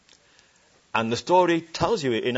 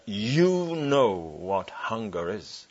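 gentle reply; 2 semitones lower, much slower than usual. Retold or imitated. Preacher answering the Belsen survivor, slow and tender. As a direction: say it slowly, with compassion.

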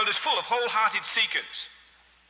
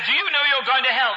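raised, high-pitched zealot's question; insistent mock shout; 6 semitones higher, 5 dB louder than usual. Zealot asking a baffled old lady once more, loud mock insistence. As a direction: press the question loudly, hammed-up.

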